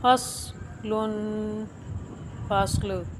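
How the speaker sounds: फस्ल with सॉद held still, no bounce; careful Quran reading. Shown as a demonstration. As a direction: say फस्ल slowly, the सॉद resting unmoved. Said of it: "सॉद को साकिन करके पढ़ेंगे बगैर हिलाए".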